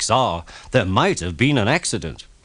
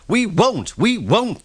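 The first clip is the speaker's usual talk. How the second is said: mock screaming; 10 semitones higher, slower than usual. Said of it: "they screamed".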